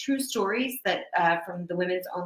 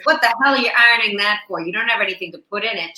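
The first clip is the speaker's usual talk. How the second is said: mock indignant husband; 2 semitones higher, 6 dB louder, faster than usual. Husband scolds wife in joke.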